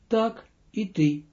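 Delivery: usual speaking voice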